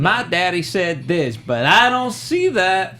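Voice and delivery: put-on high, slow little girl voice. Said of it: "And that's my girl voice".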